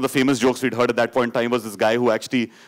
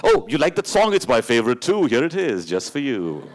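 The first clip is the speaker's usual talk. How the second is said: lying radio jockey. Retold or imitated. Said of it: "radio jockeys lie".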